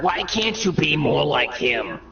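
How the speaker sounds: slow, reproachful mother voice; Mary comparing her son to Jesus, slow and reproachful; nagging mother. Acted. Mary scolding in comedy sketch.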